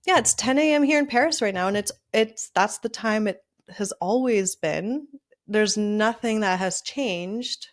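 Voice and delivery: cheerful self-talk. Retold or imitated. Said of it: "I trick my brain and I'm just like".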